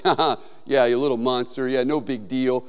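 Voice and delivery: low, offhand fake nonchalance; playing it cool. Preacher retelling his bluff to the haunted-house monsters, mock cool. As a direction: act unimpressed to hide the fear. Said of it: "tried to play it off as really cool".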